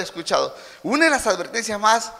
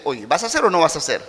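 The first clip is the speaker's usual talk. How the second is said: mild rebuke; 4 semitones lower, faster than usual. Shown as a demonstration. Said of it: "pasa del nivel animar al nivel de reprender".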